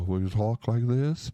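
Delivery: mock-polite, buttoned-up talk-show host; a hint of a prim radio host; stiff formal interviewer. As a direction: play the stiff, proper interviewer for a laugh. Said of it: "We don't talk like that".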